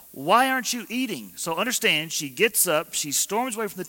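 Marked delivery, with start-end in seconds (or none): 0.1-1.3 high, loud mock question; clueless husband. Elkanah quizzes his upset wife, hammed-up high and loud. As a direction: ham up a husband who doesn't get it. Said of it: "Elkanah would ask another question".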